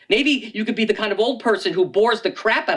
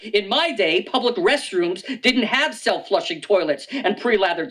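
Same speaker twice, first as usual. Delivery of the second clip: put-on grumpy old man. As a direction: drag out in my day like a cranky elder. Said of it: "one of those in my day types".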